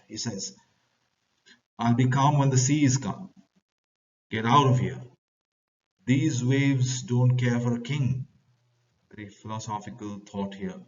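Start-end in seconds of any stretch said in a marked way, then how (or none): 1.8-8.3 loud, impatient retort; angry bosun. Acted. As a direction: tell them off over the storm. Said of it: "Bosun says".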